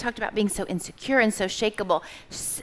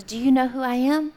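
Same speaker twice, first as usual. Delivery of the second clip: mama bird asking; 4 semitones higher, 5 dB louder than usual. Retold or imitated. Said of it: "that mama bird who goes".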